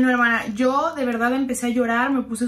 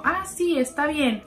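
nervous; 4 semitones higher, slower than usual. Retold or imitated. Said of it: "pero como todo nervioso".

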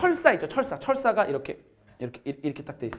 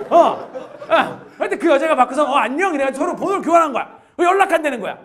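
can't stop laughing while telling it; 8 semitones higher, 9 dB louder than usual. Real, not acted. Laughing hard retelling the prank.

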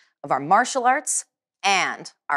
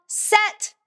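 high sharp command and reply; commanding call; 12 semitones higher than usual. Shown as a demonstration. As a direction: call and answer like a drill. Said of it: "Finish strong".

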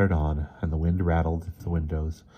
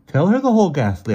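sighed; 12 semitones higher, 9 dB louder than usual. A narrator's reading. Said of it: "Emerson sighed".

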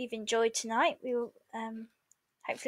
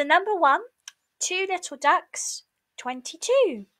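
raised, sing-song bingo calling; bingo caller; 5 semitones higher than usual. Acted. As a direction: call it out like a bingo hall caller. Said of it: "bingo calls".

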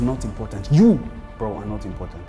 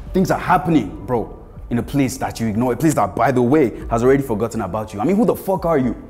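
higher, louder angry rant; 4 semitones higher, 7 dB louder than usual. Acted. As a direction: tear into him, building. Rant at washed-up actor.

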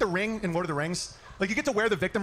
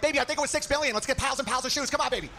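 a hint of a fast-talking schmoozer, pitched up; loosely schmooze like a smooth talker; lightly voiced smooth talker, higher; Vince Vaughn impression; 6 semitones higher than usual. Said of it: "I turned into, like, Vince Vaughn".

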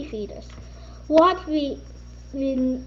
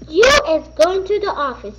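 louder, quicker order; teacher ordering a student, louder and quicker; stern order; 2 semitones higher, 5 dB louder, faster than usual. Acted. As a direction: send her off sternly.

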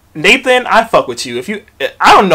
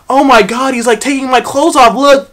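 mock outrage; 7 semitones higher than usual. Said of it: "making all the fucking jokes".

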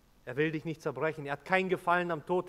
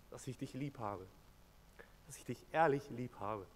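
tender confession; 5 dB quieter than usual. Acted. Tender confession after outcry.

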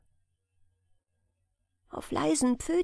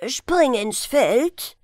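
slow, louder scolding call of the name; reproachful call; 2 semitones higher, 5 dB louder, much slower than usual. Acted. Grandfather scolding his grandson by name. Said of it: "rief er verweisend".

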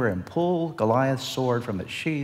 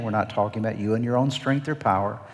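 ordinary delivery

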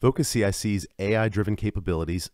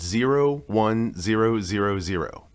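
slow, digit by digit; reading digits one by one; 4 semitones higher, slower than usual. Acted. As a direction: spell out each digit slowly. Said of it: "please say your case number digit by digit".

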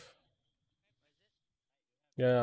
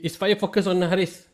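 shouting; 9 semitones higher, 5 dB louder, faster than usual. Real, not acted. Firefight callouts.

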